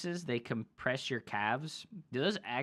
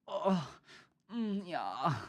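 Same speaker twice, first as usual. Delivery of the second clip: high mock German moaning; hammed-up German porn dub murmurs; German porn actor; 4 semitones higher, 4 dB quieter, slower than usual. Streamer reprising the voiceover bit, mock German porn actor. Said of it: "German porn actor voiceover".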